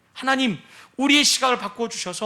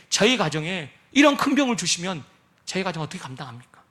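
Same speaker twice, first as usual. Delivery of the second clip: sorrowful lament; 3 semitones lower than usual. Acted. Believer voiced lamenting illness.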